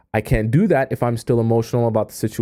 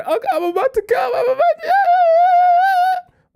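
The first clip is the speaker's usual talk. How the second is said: much higher, rising into a near-yell with a laugh; hammed-up build toward climax; mock climax; 3 dB louder than usual. Coaching a partner in bed, a mock climax rising.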